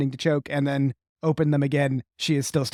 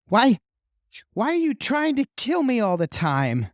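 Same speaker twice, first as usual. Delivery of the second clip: angry outburst; 8 semitones higher than usual. Acted. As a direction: snap at them, fed up. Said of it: "slams her hands down on the table and says".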